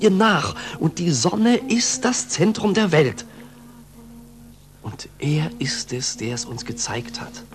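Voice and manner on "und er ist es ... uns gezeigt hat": hushed, breathy reverence; awed whisper. Acted. Pupil whispering his awe for the master. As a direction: whisper it like a sacred secret.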